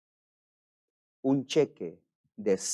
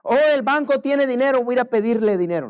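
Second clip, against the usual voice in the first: mock casual thought; 12 semitones higher, 7 dB louder, faster than usual.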